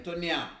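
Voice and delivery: "nyam" said as one syllable, nyahm; patois word. Shown as a demonstration. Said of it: "May I teach you some patois?".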